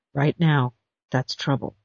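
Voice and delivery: low, soft warning; low menacing. Acted. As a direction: drop it down as a threat. Lowered warning.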